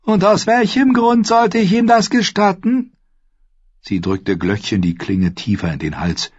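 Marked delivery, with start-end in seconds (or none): 0.0-2.9 high, scornful challenge; snorting old lord. A narrator's reading. Lord Walder refuses the mother, scornful snort. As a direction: throw the question back with contempt. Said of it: "Lord Walder schnaubte".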